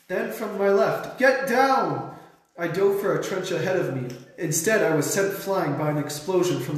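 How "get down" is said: high, urgent warning yell; yelled command. A narrator's reading. A voice from the left in battle, high urgent yell. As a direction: shout for everyone to take cover. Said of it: "I heard a voice yell".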